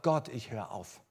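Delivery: retold frustrated complaint to God; mildly indignant, emphatic protest; disappointed, angry protest. Preacher retelling his quarrel with God over unanswered prayer, disappointed and angry. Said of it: "Ich war enttäuscht, ich war sauer".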